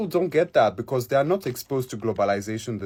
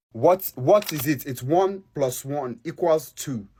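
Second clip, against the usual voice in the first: slow and obvious; 2 semitones higher, slower than usual. Real, not acted. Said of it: "spelling out the obvious".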